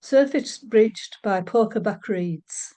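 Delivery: measured, unhurried poetry reading; poem reading. Acted. Middlesbrough poet reads her Saltholm poem, calm recital. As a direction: let each image settle before the next.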